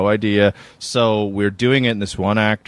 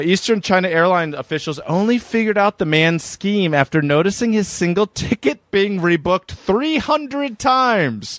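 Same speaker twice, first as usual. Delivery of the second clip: higher, emphatic read-aloud; news article read; 9 semitones higher than usual. Acted. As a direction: build the figure up like a presenter's reveal.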